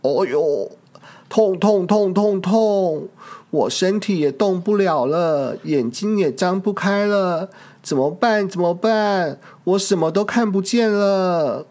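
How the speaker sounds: a hurt T. rex moaning in pain; sad hurt dinosaur. Acted. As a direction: sound hurt and helpless. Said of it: "霸王龙很伤心地说着".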